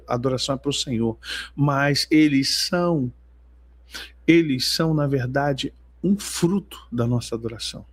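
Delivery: normal talking voice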